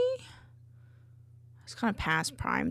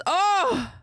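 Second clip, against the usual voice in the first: surprised; 11 semitones higher, 6 dB louder than usual. Real, not acted. Character suddenly vanishes.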